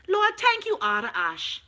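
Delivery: mock thanks.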